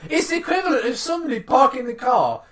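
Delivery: half-yelling in disbelief; laughing outrage. Real, not acted. Telling listeners how badly she parked, laughing loudly. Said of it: "I'm gonna make this live for you".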